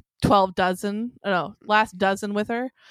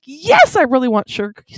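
mock eager yes; 3 semitones higher, 6 dB louder, faster than usual. Retold pleading for cookies.

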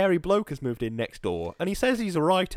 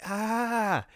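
mock scream; 7 semitones higher than usual. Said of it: "me and the cat exchanging screams".

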